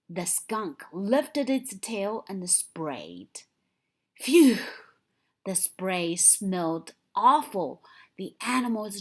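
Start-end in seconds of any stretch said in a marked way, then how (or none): 4.2-4.6 loud, higher, disgusted exclamation; disgusted phew. A narrator's reading. Narrator reacting to the awful skunk spray, loud disgust. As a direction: blast out the disgust at the smell.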